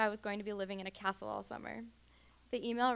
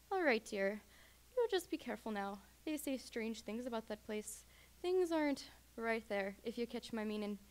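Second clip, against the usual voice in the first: put-on Irish accent. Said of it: "tolerating my horrible accent".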